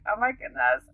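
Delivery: so excited. Retold or imitated. Learning the African doctor speaks French, so excited. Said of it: "like, so excited".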